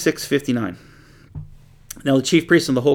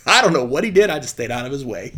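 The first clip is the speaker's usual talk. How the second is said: disciple's reply; faster than usual. Retold or imitated. Imagined disciple answering.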